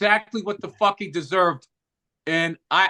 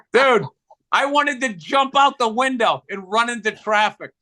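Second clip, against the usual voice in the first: mortified exclamation; 4 semitones higher, 3 dB louder than usual. Real, not acted. Exclaims at own embarrassment.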